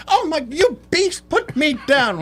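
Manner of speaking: very high mock-scandalised lady; high mock protest from the lady being carried; flustered lady. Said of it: "She's like".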